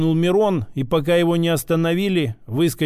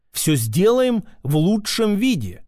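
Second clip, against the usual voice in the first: obliging shopkeeper; 3 semitones higher than usual. A narrator's reading. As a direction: lightly assure the customer like a keen shopkeeper. Услужливый лавочник отвечает клиенту.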